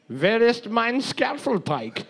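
a light mock German accent. Friend asked to say it in German accent, mock German. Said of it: "Do it with a German accent".

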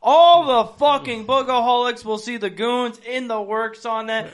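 loud, high and drawn out like a hype man; hyped up. Real, not acted. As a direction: sell it big, stretch the words. Hyping next week's new studio.

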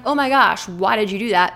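exasperated, accusing self-talk; mock reproach to oneself; self-scolding. Shown as a demonstration. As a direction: tell yourself off in dismay. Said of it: "So instead of being like".

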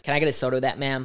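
put-on drawled Texas accent; exaggerated Southern Texas twang. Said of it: "it was too Texas".

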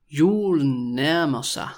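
stretched-out, careful Julen nærmer sig; slow demonstration. Shown as a demonstration. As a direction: say it slowly for a learner to repeat. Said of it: "when I say it really slowly".

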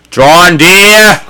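lightly sing-out wifely call; a hint of a wife calling; calling to husband. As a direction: call sweetly through the door, drawn out. Voices the woman calling to John.

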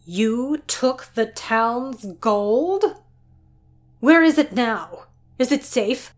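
shocked disbelief. Acted. Doctor hearing the dragon took the town's gold, shocked. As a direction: gasp it out in disbelief. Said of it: "Shock and disbelief".

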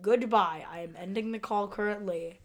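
loud, slow hammy villain; mock villain. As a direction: ham up a cartoon bad guy. Parodying sheriff as movie villain.

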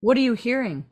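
mock therapist. Host playing therapist to Micah, lightly soft-spoken.

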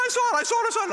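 high, excited repeated cry; freaked-out eyewitness. Retold or imitated. Italian man running up, freaking out after the branch falls. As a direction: blurt it out like a man who just saw it. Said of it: "He's all freaking out".

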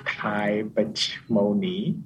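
slow name in an English accent. Shown as a demonstration. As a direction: pronounce the name slowly, English-style. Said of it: "If I say it in English accent".

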